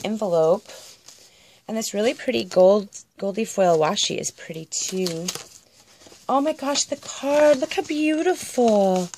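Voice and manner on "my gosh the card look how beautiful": ordinary talk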